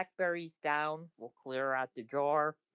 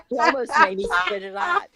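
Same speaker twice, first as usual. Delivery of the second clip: laughing with mouth full; 13 semitones higher, 12 dB louder than usual. Real, not acted. You almost made me spit it out.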